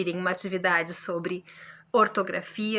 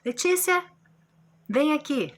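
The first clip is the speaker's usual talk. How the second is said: put-on calling a child to come here; 5 semitones higher than usual. Shown as a demonstration. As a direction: call Letícia over. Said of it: "Um chamamento, por exemplo".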